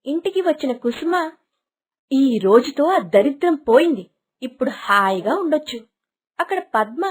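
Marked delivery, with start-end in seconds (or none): 2.1-5.8 a spiteful, relieved sneer; cruel gloating. Acted. Stepmother to herself about the abandoned girl, gloating. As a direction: savour being rid of the child.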